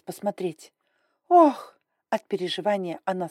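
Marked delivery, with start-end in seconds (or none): 1.3-1.8 shocked gasp. Acted. Dalia gasps again.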